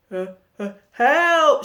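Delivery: high, loud cry for help; shout. A narrator's reading. Jack spots the giant and cries out loud. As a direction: yelp it out in fright. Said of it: "shouted Jack".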